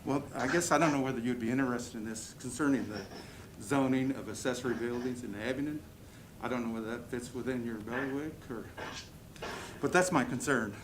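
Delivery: muffled behind a face mask; talking through a mask. Real, not acted. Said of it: "It's hard to talk with a mask".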